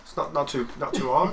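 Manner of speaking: quick Cockney accent demo. Shown as a demonstration. Guest showing he can do Cockney, Cockney accent. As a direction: toss off a bit of easy Cockney. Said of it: "I could do a bit of Cockney".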